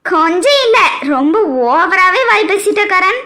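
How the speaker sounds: teasing laugh. Acted. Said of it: "என்னம்மா சொல்றிய?".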